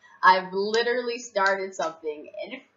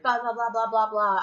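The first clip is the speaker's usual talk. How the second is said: mock chatter; 3 semitones higher, 5 dB louder than usual. Imitates unheeded chatter around her.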